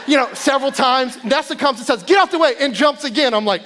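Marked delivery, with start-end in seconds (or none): 2.0-2.5 high, loud push-past line; big sister elbowing her brother aside; bossy shout. Retold or imitated. Girl pushes brother aside.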